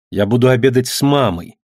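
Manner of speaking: usual speaking voice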